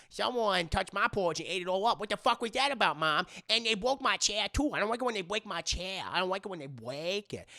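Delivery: lightly voiced whiny kid; a hint of a little kid complaining; little bear cub, mildly whining. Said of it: "He sounds like this".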